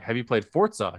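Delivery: a casual question, Forza said like "fort-sa". Retold or imitated. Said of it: "It's pronounced Forza".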